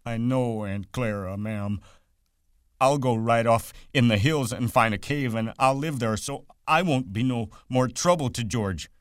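Lenny promising Aunt Clara to go away, grieving; moaning with grief. A narrator's reading. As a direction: moan it out, full of sorrow. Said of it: "Lenny moaned with grief".

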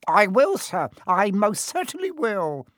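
high, loud, fawning promise; eager poltergeist. Acted. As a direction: hurry to please. Peeves obeys the Baron.

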